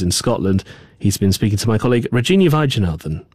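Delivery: measured radio newsreader delivery; news read. Acted. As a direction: read the script with deliberate falling phrase ends. Presenter reads script.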